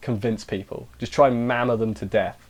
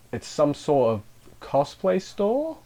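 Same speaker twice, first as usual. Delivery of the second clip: puzzled question; 4 semitones higher, slower than usual. Real, not acted. Puzzled guess about the shop.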